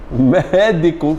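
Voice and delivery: "Médico" drawn out in syllables; split into syllables. Shown as a demonstration. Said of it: "separando sílaba".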